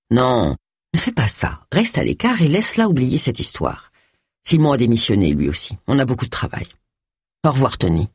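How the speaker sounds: a hint of a disappointed friend, slowing at the end; reproachful Phil.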